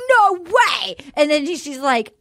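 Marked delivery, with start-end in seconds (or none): 0.1-1.0 higher mock-thrilled exclamation; put-on delighted disbelief; mock excitement. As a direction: gush it like an amazed date. Acted excited reply to lantern.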